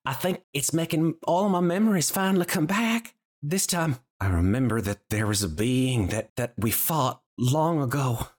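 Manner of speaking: lightly voiced shy character; hesitant, halting confession with stumbles and pauses; Lulu. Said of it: "She sort of shies away from you and she says".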